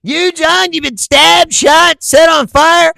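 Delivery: slow, loud and high disbelief; slow, loud amazed listing; incredulous shout. Real, not acted. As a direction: spell out each word in disbelief.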